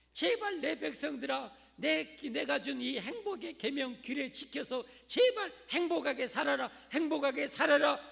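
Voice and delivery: loud, slow, high pleading plea; pleading God. Acted. God begging his people to keep the law, loud slow plea. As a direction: beg them like a heartbroken father.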